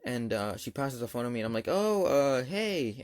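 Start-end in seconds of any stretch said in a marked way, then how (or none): 1.7-3.0 higher, hesitant hello, mildly nervous; nervous greeting. Retold or imitated. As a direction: act out an uneasy phone greeting. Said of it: "I'm pretty much trembling".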